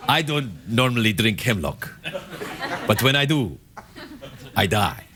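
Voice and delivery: deadpan ad-voice parody line; low, smooth beer-ad delivery; Most Interesting Man parody. Pretend. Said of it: "that's what he talked like".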